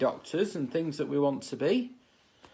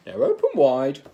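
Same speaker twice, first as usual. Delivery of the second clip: coaxing; 5 semitones lower, 6 dB louder than usual. Acted. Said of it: "she said".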